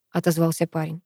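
plain reading voice

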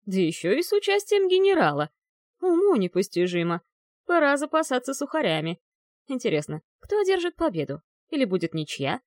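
high, gleeful creaky ghost voice; creaky archmage. Acted. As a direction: cackle it out like a gossiping old ghost. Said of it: "скрипучий голос архимага Клирола".

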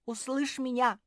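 high, loud summons; shouting. A narrator's reading. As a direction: call out boldly to someone who must hear. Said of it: "закричала Мафи".

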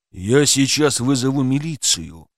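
usual speaking voice

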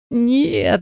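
mild high yell of despair. A narrator's reading. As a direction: cry out as the TV gets smashed. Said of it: "заорал он".

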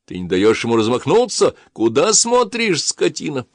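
loud, high furious overseer; angry yelling. A narrator's reading. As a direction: scream abuse at a slave. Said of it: "орал надсмотрщик".

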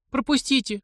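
высокий испуганный крик; кричит, чтобы её пропустили; крик девушки. A narrator's reading. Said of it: "крикнула она". (девушка кричит всадникам, чтобы её пропустили)

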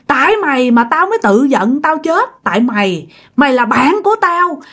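unrelenting blame. Acted. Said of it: "bà nhất quyết bà không chịu".

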